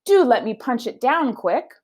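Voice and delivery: a high, eager maid's voice; Amelia Bedelia. Acted. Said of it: "said Amelia Bedelia".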